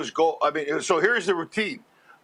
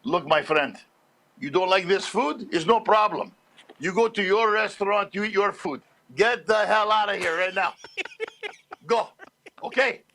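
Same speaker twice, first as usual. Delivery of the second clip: dad throwing someone out. Retold or imitated. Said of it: "This is my dad goes".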